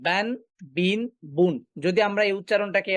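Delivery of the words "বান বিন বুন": "বান, বিন, বুন" as separate syllables, each closed on an n; tanween pronunciation. Shown as a demonstration. Teacher showing how tanween is pronounced, one syllable at a time. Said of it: "তানউইনকে উচ্চারণ করছি".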